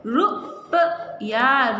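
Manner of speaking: रुपया stretched very slowly; teacher stretching रुपया; slow sounding out. Shown as a demonstration. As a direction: draw out रुपया for the class. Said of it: "हो जाएगा रु".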